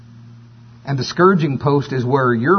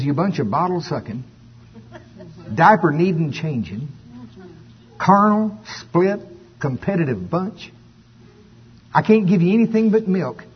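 scolding for effect. Retold or imitated. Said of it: "just for effect's sake".

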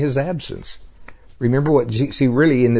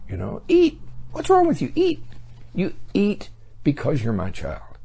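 urging grandfather; 8 semitones higher, 3 dB quieter than usual. Acted. Grandfather urging child to eat.

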